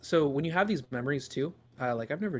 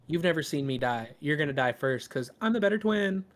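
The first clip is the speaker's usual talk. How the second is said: bratty sister; 3 semitones higher, 6 dB louder than usual. Acted. Sister punches brother and boasts.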